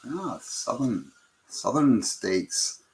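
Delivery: put-on a slow, lightly done Irish accent on southern states; drawn-out playful Irish lilt. Host greeting a Virginia viewer in a mock Irish accent. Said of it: "That, that was an Irish accent".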